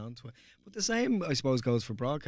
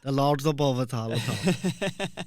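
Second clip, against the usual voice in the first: put-on Kerry accent; 4 semitones higher, 12 dB louder, slower than usual. Joins in doing the Kerry accent.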